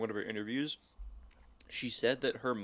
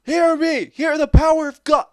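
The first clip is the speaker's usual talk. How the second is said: very high, full-force shouting; loud, high re-enacted cries; desperate movie yell; 15 dB louder than usual. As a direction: call out to someone possessed, as in an exorcism scene. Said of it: "is like".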